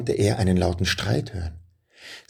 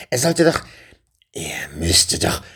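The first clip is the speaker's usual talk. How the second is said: muttering witch; 3 semitones lower than usual. A narrator's reading. Witch whose plan has failed, growling to herself. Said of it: "knurrte die Hexe".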